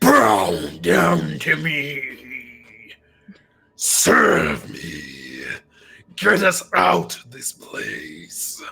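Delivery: very slow, gurgling, swooping water-creature voice. Narrating a creature's turn, the speaker voices it speaking Aquan, gurgly. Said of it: "Except much more gurgly".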